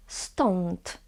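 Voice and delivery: Stąd with a dental n after the O; tongue behind upper teeth for the n in Stąd. Shown as a demonstration. Teacher repeats for learners, ą as on. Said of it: "right behind your upper teeth".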